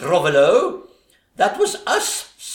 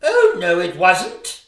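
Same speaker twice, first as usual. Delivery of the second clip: panto denial; 4 dB louder than usual. Acted.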